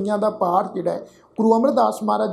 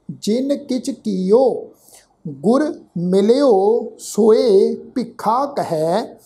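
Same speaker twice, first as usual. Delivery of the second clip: slow, deliberate chanting recitation; scripture recitation; much slower than usual. Shown as a demonstration. Teacher recites Gurbani slowly to students. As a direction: lay out every syllable carefully.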